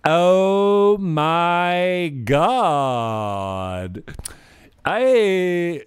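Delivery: high, loud drawn-out mock gasp; man doing a woman's voice. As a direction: gush over it like a starlet. Mocking woman in clip.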